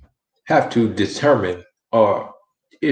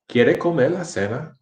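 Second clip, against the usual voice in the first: higher-pitched question, "cena" swinging up; question intonation; 6 semitones higher than usual. Shown as a demonstration. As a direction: ask "¿Quiere comer la cena?" high, ending in a rise on "cena". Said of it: "Can you hear the different inflection".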